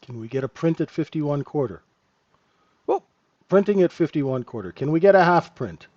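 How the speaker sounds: calling out prices like an auctioneer. Pretend. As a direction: sell it like a livestock auctioneer. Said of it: "See, now I sound like an auctioneer".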